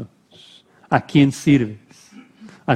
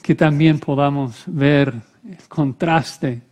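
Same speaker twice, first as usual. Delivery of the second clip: measured prayer with long pauses; solemn prayer. Real, not acted. Preacher imploring the Lord for the congregation, solemn prayer. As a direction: pray it gently, phrase by phrase.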